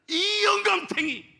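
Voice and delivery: put-on high, slow, wailing scold of an old woman; crying old wife. Weeping wife scolds her husband with a high, slow wail. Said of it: "그러니까 하는 말이".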